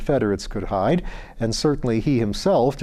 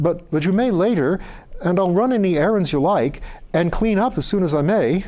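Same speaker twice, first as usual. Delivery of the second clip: put-on higher, eager humble young voice; pleading beggar boy; 6 semitones higher than usual. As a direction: beg the lord for work, rushing a little. Sandy pleads for work.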